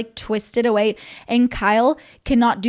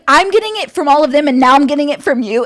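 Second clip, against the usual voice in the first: mock angry rant; 3 semitones higher, 6 dB louder, faster than usual. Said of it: "She was like".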